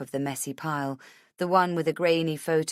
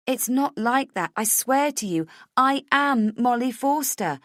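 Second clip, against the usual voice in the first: higher, louder insistence; urgent, desperate; 7 semitones higher, 6 dB louder than usual. A narrator's reading. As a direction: swear it, desperate to be believed. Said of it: "urgently, desperately".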